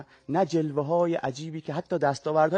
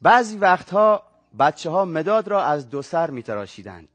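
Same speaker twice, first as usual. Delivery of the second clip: story reading. A narrator's reading. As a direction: read the story to the audience, savouring each line. Guest reads his short story aloud.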